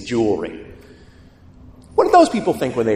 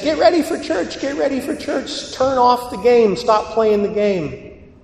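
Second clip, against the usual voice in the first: mock mom yelling orders, very high; imitated mother at the end of her patience; exasperated mother; 11 semitones higher, 3 dB louder than usual. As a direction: nag the kids in a high, raised voice. Mother repeats orders, kids ignore her.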